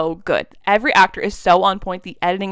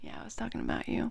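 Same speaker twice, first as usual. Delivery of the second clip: fast, softer whispered reply; 8 semitones lower, 15 dB quieter, faster than usual. Retold or imitated. Simon whispering to Patty through the cop car, softly. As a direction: whisper it tenderly to her. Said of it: "He's like".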